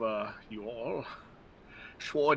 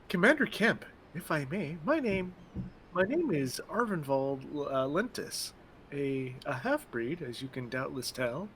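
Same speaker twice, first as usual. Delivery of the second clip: put-on lightly higher, earnest young half-breed; earnest recruit; 5 semitones higher than usual. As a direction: plead your cause with pride. Voicing Arvinvald recruit.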